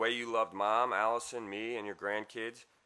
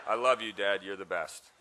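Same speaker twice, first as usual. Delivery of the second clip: emotional laugh; 5 dB louder than usual. Real, not acted. Closing words of his eulogy.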